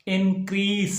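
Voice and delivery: "increase" ending in a crisp s; correct "increase". Shown as a demonstration. Teacher giving the first word of the lesson, correct pronunciation of increase. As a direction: say increase with an s sound. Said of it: "तो पहला लफ्ज़ है".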